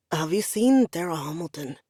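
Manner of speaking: low, commanding Scottish brogue; a lightly done thick Scots voice; Highland brogue. Acted. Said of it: "low and commanding, with a ridiculously thick Highland brogue".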